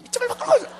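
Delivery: very high-pitched mimicked plea; mock prayer. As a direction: mimic a demanding prayer in a squeak. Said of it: "그러지". (높은 목소리로 기도를 흉내 내며)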